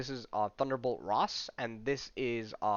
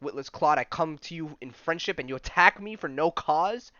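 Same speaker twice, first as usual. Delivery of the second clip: loud, indignant rebuke; outraged prince; 4 semitones higher, 5 dB louder than usual. Acted. Namor berating Hulk after the blow, loud indignation. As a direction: scold the brute for attacking a friend.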